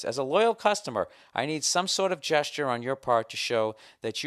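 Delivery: emphatic loyal-customer appeal; formal letter reading. Acted. Loyal customer reading his demand to the airline, formal. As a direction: press the formal demand from the page.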